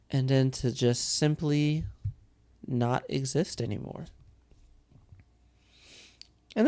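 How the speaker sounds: weighty, deliberate telling of dark lore; game master lore narration. Acted. Game master telling a player about the demonic plague, solemn narration.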